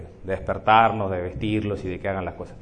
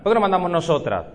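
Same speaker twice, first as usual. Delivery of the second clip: put-on higher, louder childish demand; toddler's question; 7 semitones higher, 4 dB louder than usual. Toddler demanding why mom doesn't rule, childish. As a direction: push back like a bossy little kid. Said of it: "Cuando era chiquito me decía".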